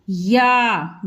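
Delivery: "या" with its आ held long; drawn-out vowel. Shown as a demonstration. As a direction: stretch "या" out fully. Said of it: "या को खींच के बोलना है पूरा". ("या" को पूरा खींच के बोलें)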